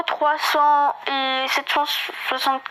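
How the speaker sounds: tongue trips on "sept cent soixante"; stumbling over words. Real, not acted. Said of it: "oh, pardon, j'ai bégayé". (bafouillage sur « sept cent soixante »)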